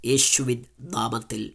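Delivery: fervent spoken prayer to God; a pastor praying over his listeners; earnest prayer. Acted. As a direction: pray aloud for the listeners. Leads a prayer.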